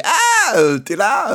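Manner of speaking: high, startled squeak of a coward; scared Kobe. Retold or imitated. Cowardly cabin boy startled in a barrel, squeaking. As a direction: jump in pitch like a frightened kid. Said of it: "Kobe, c'est un trouillard".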